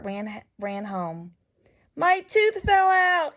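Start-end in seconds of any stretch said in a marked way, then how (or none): 1.9-3.4 high, loud and slow, bursting with news; excited shout. Acted. Gilbert running home shouting about his tooth. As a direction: announce it like big news. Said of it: "he shouted".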